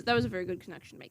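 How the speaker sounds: talking through a yawn; words stretched by a yawn. Real, not acted. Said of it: "Sorry, I'm yawning now".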